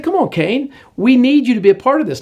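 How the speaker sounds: urgent appeal. Acted. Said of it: "And God said".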